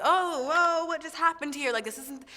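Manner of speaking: high, loud astonished gasp; retold amazement. Singer recalling coaches turning their chairs, high astonished exclaim. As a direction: react as if the coaches just turned. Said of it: "and I was like".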